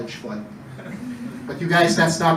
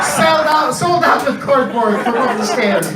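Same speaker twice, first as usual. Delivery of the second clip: excited shout; 4 semitones higher than usual. Acted. Crowd hype, sold out.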